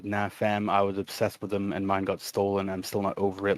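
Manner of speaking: flat, deadpan chat reading; monotone voice. Shown as a demonstration. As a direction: read it with no life at all. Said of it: "reading it in a very monotone voice".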